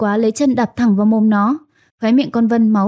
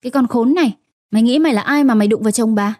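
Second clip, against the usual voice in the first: cursing while hitting; faster than usual. Acted. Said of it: "Vừa đánh tôi vừa chửi".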